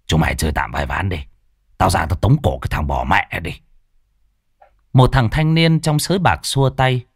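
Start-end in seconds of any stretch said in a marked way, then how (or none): 0.1-3.5 sulky. Acted. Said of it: "nhìn mấy con bạc hậm hực".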